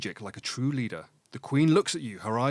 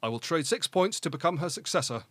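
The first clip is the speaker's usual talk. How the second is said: confident; 4 semitones higher than usual. Pretend. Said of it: "Just confident".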